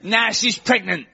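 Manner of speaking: high-pitched Essex lad; put-on Essex accent, matter-of-fact confession. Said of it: "this guy on from Essex".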